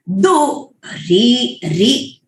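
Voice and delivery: दो री slow, री dropped low; Vedic pitch accent. Shown as a demonstration. Teacher showing where the pitch drops on दुरिता. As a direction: let री fall clearly low. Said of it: "please note the intonation".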